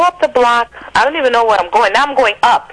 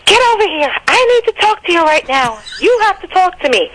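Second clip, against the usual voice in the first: higher, insistent order; angry demand; 9 semitones higher than usual. Retold or imitated. Girlfriend on the corner demanding to talk, angry. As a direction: demand she come over right now.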